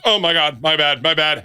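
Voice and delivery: high-pitched mock panic; retold flustered apology. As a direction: blurt a high, acted-out apology.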